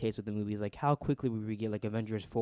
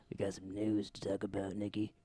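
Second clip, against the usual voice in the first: calm, low news-anchor read; newscaster voice; 3 semitones lower, 7 dB quieter than usual. Pretend. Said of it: "That's my newscaster voice".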